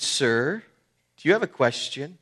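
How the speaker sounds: mildly impatient, pitch lifted. Retold or imitated. Preacher voicing the speaker to the orange-eating man, mildly impatient. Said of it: "getting very impatient, said".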